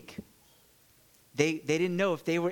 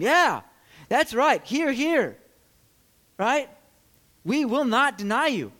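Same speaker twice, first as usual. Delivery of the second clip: eager agreement; 7 semitones higher, 7 dB louder than usual. Acted. Disciples chime in eagerly.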